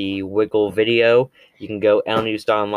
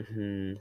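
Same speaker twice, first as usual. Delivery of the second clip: thinking hmm; 14 dB quieter than usual. Real, not acted. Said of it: "let's see".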